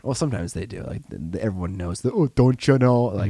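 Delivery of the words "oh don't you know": light mock Minnesota accent; a hint of "don't you know" Minnesota lilt. Teasing Minnesotans, in a lightly mocking Minnesota accent. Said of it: "Minnesotans don't get the shaft".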